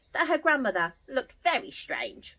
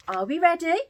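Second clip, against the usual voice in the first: excited; 7 semitones higher, 5 dB louder, faster than usual. Real, not acted. Asking children before story.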